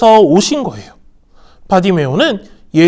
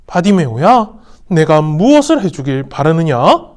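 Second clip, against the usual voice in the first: lower, gentle loving question; 3 semitones lower than usual. Acted. Jesus asking Bartimaeus what he wants, tender. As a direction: ask tenderly, full of love. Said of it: "사랑이 가득한 목소리로 물으셨어요".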